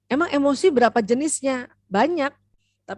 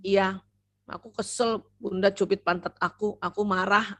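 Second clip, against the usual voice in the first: put-on upset child; 2 semitones lower, 3 dB quieter than usual. Shown as a demonstration. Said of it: "anak yang sangat ingat".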